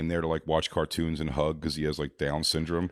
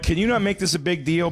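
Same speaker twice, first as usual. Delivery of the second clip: high-pitched imitation of a fed-up mother; lightly hammed-up pleading; exasperated plea; 9 semitones higher than usual. Mother pleading with the sting crew, mock exasperation.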